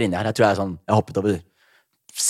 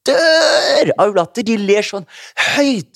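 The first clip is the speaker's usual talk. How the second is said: laughing while telling; 11 semitones higher, 5 dB louder, much slower than usual. Real, not acted. Recalling the audience laughing.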